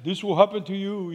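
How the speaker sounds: imitating a father's German accent; light mock German accent. Dad consoling his lovesick son, in a German accent. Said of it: "he said in his German accent".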